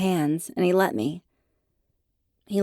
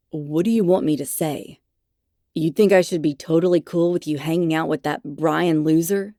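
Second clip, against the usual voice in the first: put-on jealous boyfriend; 4 dB louder than usual. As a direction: grumble it resentfully. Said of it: "What I got was a glare".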